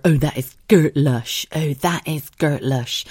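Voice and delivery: slow mock Bristolian gert lush; Bristol accent. Bristol locals praising something, slow Bristolian accent. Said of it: "everybody said".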